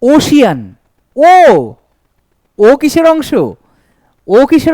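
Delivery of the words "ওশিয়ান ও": teacher sounding out ocean; isolating the first sound. Shown as a demonstration. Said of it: "next".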